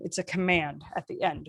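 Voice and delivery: "command at the end" falling in pitch; command intonation. Shown as a demonstration. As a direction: drop down through "command at the end". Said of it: "when it goes down".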